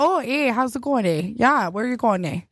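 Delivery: mock Canadian accent. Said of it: "they're Canadian, so they're very polite".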